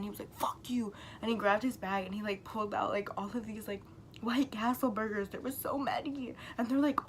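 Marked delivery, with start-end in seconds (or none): 0.4-0.9 hushed, half-whispered mock anger; retold pissed-off swear. Friend angry about his backpack, imitated in a hushed snap. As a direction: imitate someone pissed, under the breath. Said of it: "pissed again".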